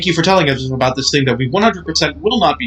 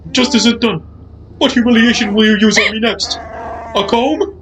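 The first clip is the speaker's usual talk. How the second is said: indignant Wookiee voice; 9 semitones higher than usual. Acted.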